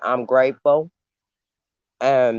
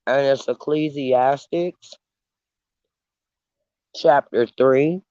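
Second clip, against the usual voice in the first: chewing while talking; mouth full. Real, not acted. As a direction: talk through a mouthful of food. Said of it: "I know I'm chewing".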